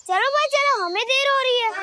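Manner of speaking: high-pitched urging call; rally the others, voice well up; hurrying friends along. Acted. Child telling friends they are late, hurrying them along.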